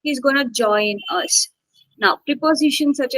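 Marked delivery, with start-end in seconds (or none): 0.0-1.5 HE'S slipped in lightly, JOIN carrying the weight; subtle unstressed HE'S. Shown as a demonstration. Teacher showing subtle pronouns, HE'S left unstressed. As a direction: pass lightly over HE'S, land on JOIN. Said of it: "It is subtle".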